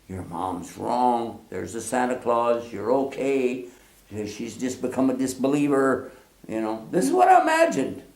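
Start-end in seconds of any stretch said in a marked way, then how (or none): 0.1-6.1 reassuring grandmother. Retold or imitated. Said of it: "her reassuring voice".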